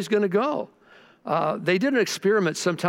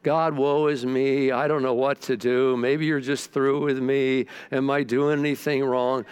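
whining to God; 4 semitones lower than usual. Retold or imitated. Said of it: "I was whining to God".

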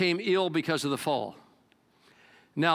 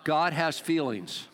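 slow, lower repeat; slow call-and-response; 4 semitones lower, much slower than usual. Shown as a demonstration. Congregation repeating with the preacher, slow and lower. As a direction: congregation echoes, slowly. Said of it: "Say it with me".

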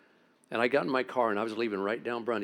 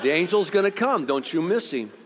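loud emphatic promise; 7 semitones higher, 7 dB louder than usual. Retold or imitated. Retold words to scared kid.

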